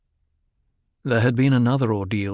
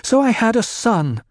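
much higher and louder, sudden defiance; flaring up; 12 semitones higher, 4 dB louder than usual. A narrator's reading. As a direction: burst out in goaded anger. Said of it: "Jessica flared".

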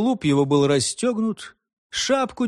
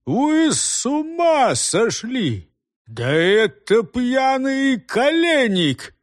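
higher, slow, indignant cry; exasperated scolding; 6 semitones higher, much slower than usual. A narrator's reading. Head finding a drunk instead of the devil, exasperated. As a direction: scold them for the blunder. Head finds wrong man caught.

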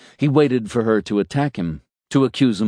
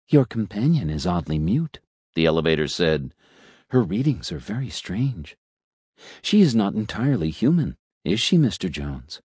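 suave talking elevator. Acted. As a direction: purr it like a polite elevator making small talk. Elevator probing.

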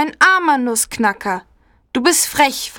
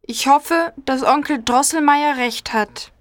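put-on sad girl; 13 semitones higher than usual. A narrator's reading. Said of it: "sagt sie traurig".

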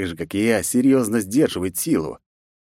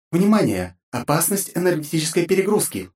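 high voiced ship AI warning; AI alarm; 9 semitones higher than usual. A narrator's reading. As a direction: call out the warning as the AI. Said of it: "воскликнула Кэрол". (Кэрол предупреждает хозяина: высокий голос ИИ)

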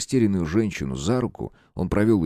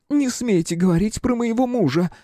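high, strained woman's voice in fury; furious widow. A narrator's reading. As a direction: forbid him, beside herself. Widow forbids mention of husband. (в ярости, высоким женским голосом)

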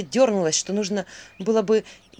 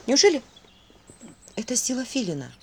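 awed whisper; 3 semitones higher than usual. A narrator's reading. Vasilisa marvels at her new power, whispered. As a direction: breathe the question to yourself.

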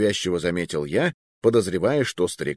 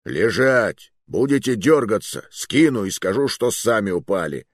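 threatening; 3 dB louder than usual. Acted. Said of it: "пригрозил громадный колдун".

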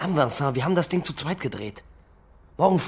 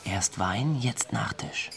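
whisper; 3 semitones lower, 6 dB quieter, much slower than usual. Acted. Watching the old man eat dessert.

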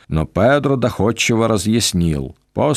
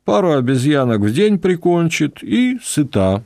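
higher-pitched, eager voice of a jungle guide; knowing guide Pedro; 5 semitones higher than usual. Acted. Pedro lectures the travellers on jungle creatures, eager and raised. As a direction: relish the tales of monsters like a proud local.

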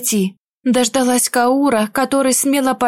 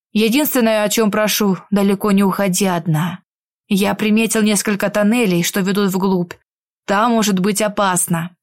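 lower, patient instructing voice; a hint of a calm protector; calm male companion; 3 semitones lower than usual. Werewolf gives instructions. (спокойный мужской голос)

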